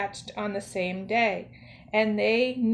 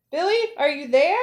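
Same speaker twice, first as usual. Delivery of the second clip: calling out; 6 semitones higher, 5 dB louder than usual. A narrator's reading. Calling into the den.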